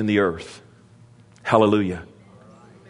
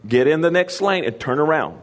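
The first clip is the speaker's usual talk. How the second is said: mildly higher, crisp navigation voice; lightly voiced sat-nav lady telling the driver to turn; GPS lady; 5 semitones higher than usual. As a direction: play the GPS giving directions. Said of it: "but she'll just say".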